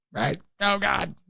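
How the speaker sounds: high, squeaky inner panic; mock terrified. New dad secretly panicking before the birth, mock terrified. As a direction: squeal it in comic dread. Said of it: "I'm terrified".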